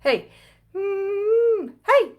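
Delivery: high, loud hey pushed further up. Shown as a demonstration. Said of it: "That was the same level".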